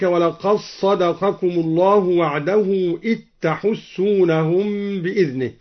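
ولقد صدقكم run together as "walaqas-sadaqakum"; dal merged into sad. Shown as a demonstration. Teacher showing al-Duri's reading, ولقد صدقكم as "walaqas-sadaqakum". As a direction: melt the d of ولقد into a doubled s, and إذ تحسونهم as "it-tahussunahum". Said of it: "الدال في الصاد أيضًا".

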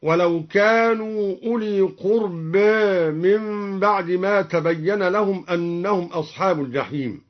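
قربى ending tilted toward "e", "qurbē"; taqlil in قربى. Shown as a demonstration. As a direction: end قربى between "aa" and "ee". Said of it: "وكذا قلل قوله تعالى". (تقليل ألف قربى)

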